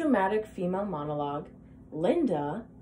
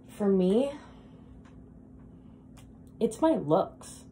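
lightly acted dramatic monologue, earnest and self-doubting; a woman laying her insecurity bare; Linda; 4 dB louder than usual. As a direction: confide in a stranger with long, weighted pauses.

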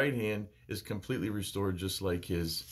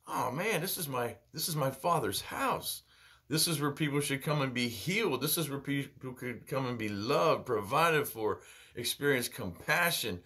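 saddened Jesus; 2 semitones higher than usual. Retold or imitated. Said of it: "Jesus is sad".

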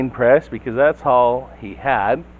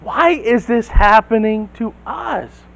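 raised, higher complaining outburst; blurting out; 7 semitones higher, 5 dB louder than usual. Retold or imitated. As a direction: blurt it out in protest. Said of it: "Gideon blurts out".

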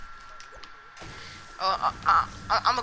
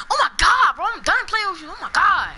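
lightly imitated whiny friend, higher; mock upset friend; 7 semitones higher, 4 dB louder than usual. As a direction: play the sore loser, a bit louder. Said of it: "and he's like".

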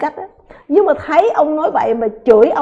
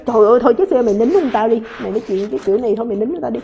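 scolding quote; 4 semitones lower, much faster than usual. Retold or imitated. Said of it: "Nhưng người ta nói".

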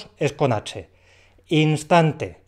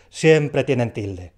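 slow emphatic rule; 3 dB louder, much slower than usual. Shown as a demonstration. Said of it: "rule stated".

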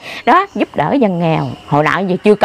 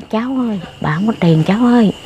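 gentle. Retold or imitated. Grandmother gently refusing an addict money, gentle. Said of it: "mình nói nó nhã nhẹ, như nhẹ vậy".

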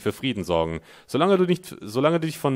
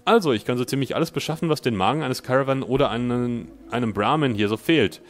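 raised, loud salesman pitch; chummy trader voice; 3 semitones higher, 4 dB louder than usual. Acted. Streamer voices trader Dan welcoming the player, salesman cheer. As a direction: greet the customer like a smooth dealer.

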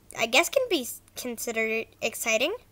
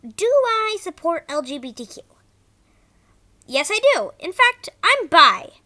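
bad acting; 5 dB louder than usual. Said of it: "Sorry if the voice acting was bad".

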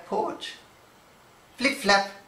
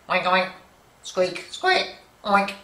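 scolding pig; 3 semitones higher than usual. Acted. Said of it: "She's really telling him off".

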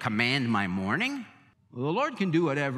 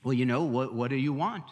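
rising higher, coaxing and eager; mock prosperity preacher; 5 semitones higher than usual. Preacher mimicking prosperity teachers, higher and eager. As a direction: hype them up like a salesman. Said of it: "Now we hear people say".

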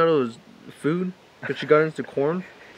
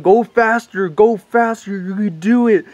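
urging cop; 4 semitones higher, slower than usual. Retold or imitated. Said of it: "The cop kept telling him".

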